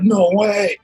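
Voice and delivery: high, drawn-out mock disbelief; freaking out. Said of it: "she's freaking out".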